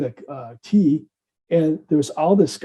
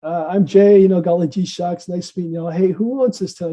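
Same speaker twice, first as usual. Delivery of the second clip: folksy friendly greeting; 2 semitones higher than usual. Retold or imitated. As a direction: play up a golly-gee newcomer's introduction. Introducing himself to homeless stranger.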